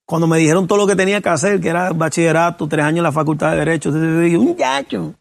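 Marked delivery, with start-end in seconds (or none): 4.4-5.1 higher-pitched incredulous "muchacho"; amused disbelief, pitched up; retold exclamation. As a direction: blurt it high, breaking toward a laugh. Acts out own laughing reaction.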